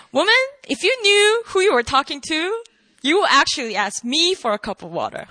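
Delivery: mock-cocky, lightly acted Jesus. Jesus to the woman at the well, cocky. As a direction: start high, then settle, sure of yourself. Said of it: "he sounds mad cocky".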